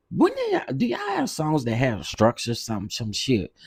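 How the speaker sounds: sudden high, disbelieving; can't believe what she hears; shocked jump up in pitch; incredulous question. Real, not acted. Incredulous rant.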